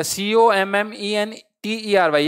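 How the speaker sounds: "सी ओ एम एम ई एन टी ई आर वाई" spelled slowly letter by letter; slow spelling option. Shown as a demonstration. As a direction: read out the wrong option slowly. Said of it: "ये तो बिल्कुल ही गलत हो गया".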